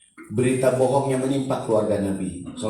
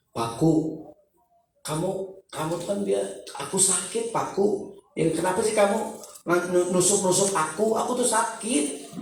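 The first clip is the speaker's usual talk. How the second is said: hurt wood complaining; 5 semitones higher, 3 dB quieter than usual. Retold or imitated. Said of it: "Kayu bilang begini".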